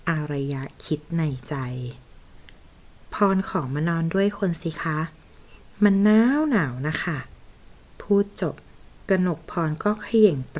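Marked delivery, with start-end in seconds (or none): 3.1-7.2 a lightly voiced flirt, playing helpless; coquettish plea. Secretary tries to talk her way into his bed, mildly coy.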